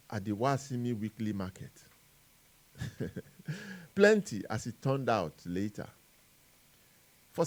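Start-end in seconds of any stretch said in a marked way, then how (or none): 3.0-4.4 a laugh breaking into the word, pitched up; amused burst of a laugh. Real, not acted. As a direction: chuckle out the answer. Wry punchline after rhetorical question.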